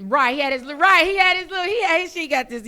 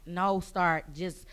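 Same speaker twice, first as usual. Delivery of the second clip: logical cousin; 2 semitones lower than usual. Retold or imitated. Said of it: "she all logical and shit".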